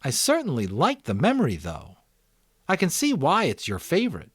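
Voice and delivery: put-on a boy thinking aloud, picking up speed; eager boy Jonas. Jonas to the giver.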